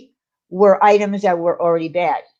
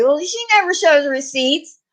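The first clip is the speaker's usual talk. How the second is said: high, snide mock complaint; mocking critic; 8 semitones higher than usual. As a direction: sneer it like a doubting critic. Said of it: "people are gonna say".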